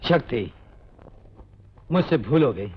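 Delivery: low-pitched, humbled admission; contrite apology. Acted. Brother apologizing to sister's beloved, contrite. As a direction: drop the voice and own the mistake.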